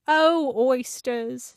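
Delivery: slow, drawn-out call; long, stretched character hail; calling carpenter. A narrator's reading. Carpenter calls to the eaten oysters.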